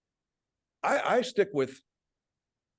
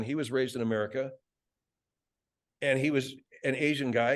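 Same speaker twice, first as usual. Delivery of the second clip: normal talking voice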